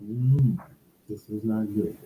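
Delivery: muffled, boomy bad mic; inside a barrel. Real, not acted. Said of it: "Sounds like you're talking into a barrel".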